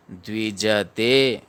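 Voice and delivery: द्विजते drawn out as द्वि, ज, ते; slow, measured द्विजते, each syllable full; syllable-by-syllable demo. Shown as a demonstration. Teacher breaking down a shloka word, slow and syllabic. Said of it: "द्विजते नहीं पढ़ना है".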